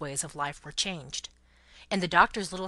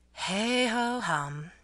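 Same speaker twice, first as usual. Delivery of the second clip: long, drawn-out hey-ho; resigned but cheery, very slow; cheerfully repressed sigh; much slower than usual. A narrator's reading. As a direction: stretch it slowly like a sigh held back. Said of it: "cheerfully repressing a sigh".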